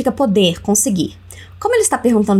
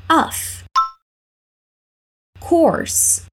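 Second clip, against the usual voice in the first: "Of course" whispered, unvoiced and high; whispered model; 6 semitones higher than usual. Shown as a demonstration. Teacher modelling the reply for students, whispered. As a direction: breathe the words without voice. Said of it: "Let's repeat".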